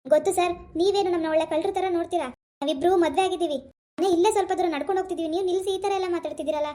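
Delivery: indignant, insistent self-defence; worked-up, defiant explaining. Acted. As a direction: argue back at the officer. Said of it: "ಏನ್ ಜೋರಾಗ್ ಮಾತಾಡ್ತಿದ್ಯಾ?".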